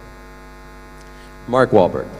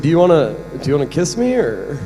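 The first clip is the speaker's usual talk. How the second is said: lightly acted hopeful, higher question; Philip Seymour Hoffman; 5 semitones higher, 3 dB louder than usual. Actor playing a man shyly asking his friend, hesitant hopeful impression. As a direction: ask haltingly, trailing off in hope. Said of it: "Philip Seymour Hoffman".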